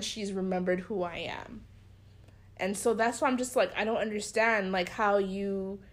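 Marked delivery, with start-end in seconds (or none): 0.0-1.6 hushed, low voice; whispered aside about the pastor's wife. Real, not acted. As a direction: drop to a whisper.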